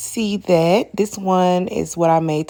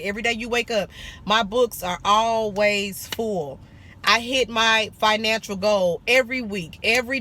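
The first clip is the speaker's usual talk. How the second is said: affirmation. Shown as a demonstration. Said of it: "Say your affirmations and mean it".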